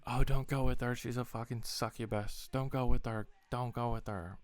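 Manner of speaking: loud mock warning from a friend. Friend warns him off the bartender, loud mock call. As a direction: holler it like a meddling friend. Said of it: "is like".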